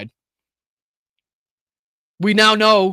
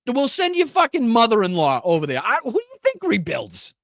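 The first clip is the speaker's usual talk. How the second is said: angry rant; 4 semitones higher than usual. Real, not acted. Furious rant at a guest.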